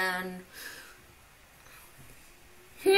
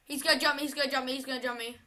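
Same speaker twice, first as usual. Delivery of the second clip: fading to soft and lower, dreading; fearful murmur; 4 semitones lower, 7 dB quieter, much faster than usual. Real, not acted. Player bracing for a jump scare, fading fearful murmur. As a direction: mutter it in growing dread.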